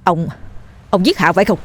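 mildly stern interrogation; stern questioning. Acted. Dần questioning the old man about Hạ, sternly. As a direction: ask gravely, with a hesitant start. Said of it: "Dần lại nghiêm giọng hỏi".

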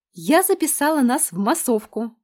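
high, loud, beaming news; joyful announcement. A narrator's reading. Lena joyfully tells Varya she signed them up. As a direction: announce it with glee. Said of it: "радостно сообщила она".

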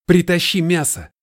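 high, loud command; urgent order. A narrator's reading. Colton yells at Noah to fetch meat, loud.

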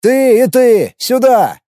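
high, loud summons; commanding yell. A narrator's reading. Leader calls out two slackers in his squad, yelling. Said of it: "заорал я".

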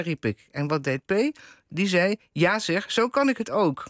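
lively read-aloud with lightly acted dialogue; column reading aloud. A narrator's reading. Interviewer reads the author's column aloud, lively storytelling. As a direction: read a wry domestic story to an audience.

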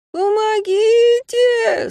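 very high, loud, drawn-out wail; Abraham wails from the treetop; howling for help. Acted. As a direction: howl it in panic. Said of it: "снова взвыл Абрахам".

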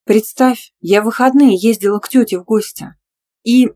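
bursting to share the news; joyful. A narrator's reading. Lena to her friend over coffee, excited and joyful. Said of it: "радостно сказала я".

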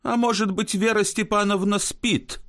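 a tired guest ventures a guess; guest's voice. Acted. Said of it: "говорит Лаев".

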